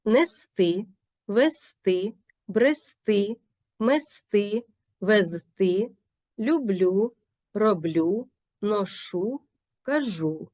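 нести, вести, люблю, кажу with the final vowel stressed; last-syllable stress. Shown as a demonstration. Teacher listing verbs like нести, stress on last syllable. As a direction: push the end of each verb. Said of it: "Наголос на останньому складі".

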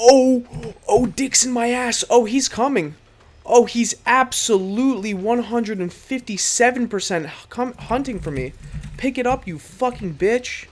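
loud, high, frantic panic; panicked yelling. Real, not acted. Gamer yelling as the killer chases him, panicked. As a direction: yell it like he's right behind you.

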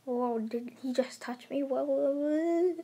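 hushed wonder, rising on the last whoa; mildly stunned musing to oneself; half-whispered amazement, drifting upward; dazed contemplating. Acted. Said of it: "kind of contemplating".

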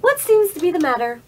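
put-on high, wavering old lady. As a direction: play a sweet old landlady. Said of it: "her old lady voice kills me".

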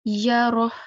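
yarah cut short on a clear "h"; recited yarah, no vowel after the "h"; clear final ha. Shown as a demonstration. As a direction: drop the "u", end yarah on a breathed "h". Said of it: "make sure that the sound of ha is clear".

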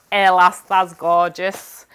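loud "Hey lass", slow drawn "that's gorgeous"; broad Yorkshire phrase. Shown as a demonstration. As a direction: read the Yorkshire slogan with relish. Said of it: "another little bag".

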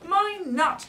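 high, delighted squeal of triumph; joyful cry. A narrator's reading. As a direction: cheer like a thrilled little squirrel. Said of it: "cried Squirrel".

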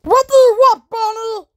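loud high irritated reply; annoyed snap. Acted. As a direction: snap at the interruption. Annoyed character answer.

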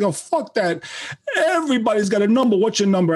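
lightly voiced fan brushing off the answer; pushy New York fan. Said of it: "They're like".

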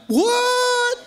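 a wife staring in disbelief, crying out; wife's shocked "what". Retold or imitated. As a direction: play the stunned wife. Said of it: "my wife would have been like".

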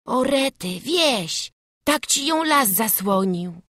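high startled exclamation; suddenly see the village; surprised boy. Acted.

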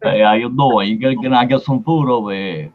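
lightly voiced movie boxer; a rough stab at a famous film boxer; amateur boxer impression; Rocky Balboa. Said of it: "that was a terrible impression right there".

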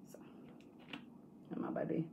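soft unvoiced whisper. Real, not acted. To viewers about her dog, whispered. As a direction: breathe it sadly.

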